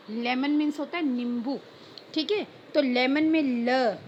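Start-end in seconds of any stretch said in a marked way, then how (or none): 3.4-4.0 ल drawn out as a slow "luh"; letter sound. Shown as a demonstration. Teacher isolating lemon's consonant, letter sound. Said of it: "ये भी आपका consonant sound है".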